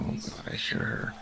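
1 whisper. Real, not acted. Hearing the monster nearby.

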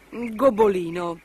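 slow, kindly address; gentle. A narrator's reading. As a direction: break it to them gently. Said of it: "disse gentilmente".

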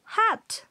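"hat" said with a high, breathy h; high model word. Shown as a demonstration. Teacher modelling the English h sound of "hat". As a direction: push air on "hat". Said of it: "You pronounce".

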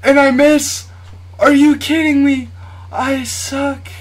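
high, loud disbelief at his own miss; frustrated outburst. Real, not acted. Gamer yelling at his own missed shot, loud disbelief. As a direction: blurt it out, stunned and annoyed.

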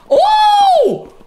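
very high, loud surprised cry; startled squeal. Real, not acted. Streamer startled by her own pet, squealing then laughing.

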